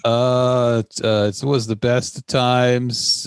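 halting, drawn-out reading aloud; mock a nervous pupil stumbling through a book; nervous reader. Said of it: "you'd be all nervous".

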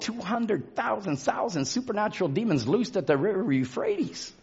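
hushed. Real, not acted. Dramatic hushed description.

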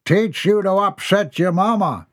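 a hint of a satisfied dad; father voice. A narrator's reading. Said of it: "father scolds son".

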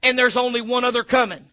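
emphatic pulpit delivery; forceful preaching. Real, not acted. Preacher correcting the church on the second coming, forceful preaching. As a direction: preach it hard, punching key words.

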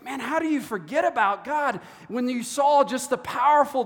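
exclaiming in disbelief, with swooping pitch; incredulous. Acted. Preacher reacting to Noah's descendants forgetting God, incredulous. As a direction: marvel aloud at such forgetting.

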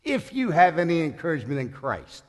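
a sarcastic "as if there's any doubt"; dripping sarcasm. Acted. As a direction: read it out with pointed, knowing sarcasm. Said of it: "being so sarcastic, it just kinda drips".

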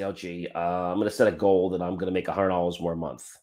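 lightly voiced doubter settling for little; mock timid goal-setter. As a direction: lightly play the unambitious guy hedging. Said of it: "and they say".

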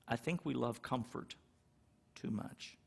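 "too much" whispered at the end; soft, fading to a whisper. Shown as a demonstration. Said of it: "repeats it for emphasis".

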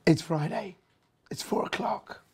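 ordinary talk

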